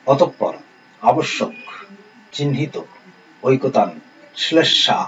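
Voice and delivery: measured dictation, one word at a time; teacher dictating a list of words; word-list reading. Acted. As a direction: read out each word separately, pausing after each.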